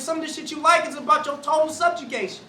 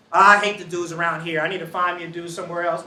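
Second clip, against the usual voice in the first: fed-up complaint; 8 semitones lower than usual. Retold or imitated. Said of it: "imitating a fed-up student".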